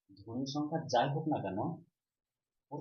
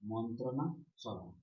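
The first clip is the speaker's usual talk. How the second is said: মন্ত্রণা সভা said slowly, in two parts; slow clear repeat; 4 dB quieter, slower than usual. Shown as a demonstration. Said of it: "কি?".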